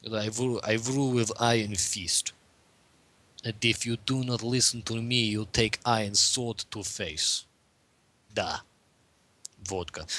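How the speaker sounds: lightly hammed Russian accent, menacing; mock Russian accent. Host voicing communism as a stern dictator in mock Russian accent. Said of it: "stereotypical, like, Ukrainian Russian".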